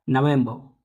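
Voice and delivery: नवंबर said as "naʋemba", falling at the end; model pronunciation. Shown as a demonstration. Teacher to class, answering how to say नवंबर. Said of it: "क्या बोलेंगे इसको".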